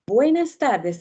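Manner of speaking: an energetic opening "buenas tardes" for an audience; bright loud greeting. Shown as a demonstration. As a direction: announce "buenas tardes" up high to the room. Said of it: "Por ejemplo".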